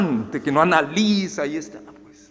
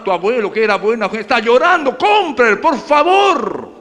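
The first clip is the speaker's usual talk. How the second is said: pleading seller. Acted. Preacher voices seller's pleading pitch.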